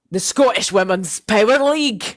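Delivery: hammed-up attempt at a Scottish accent; bad Scottish accent. Shown as a demonstration. Podcaster announcing her topic to co-host, bad Scottish accent. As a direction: put on a clumsy Scottish accent. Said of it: "That was really bad".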